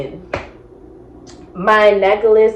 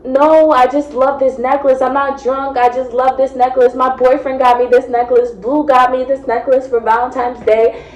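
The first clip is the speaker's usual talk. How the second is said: put-on mildly whiny drunken insisting; imitating a weepy drunk; mock tearful protest; 3 semitones higher than usual. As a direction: plead it on and on, half-crying. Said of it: "And I'm just crying".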